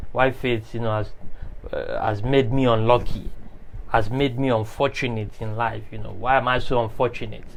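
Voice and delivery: low, soft self-pitying complaint; mock lamenting. Preacher voices someone blaming fate, mildly lamenting. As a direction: imitate someone feeling sorry for themselves, softly and low. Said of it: "just crying and lamenting and be like".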